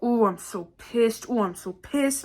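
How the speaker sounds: imitated angry grumble. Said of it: "I hear it come back up again".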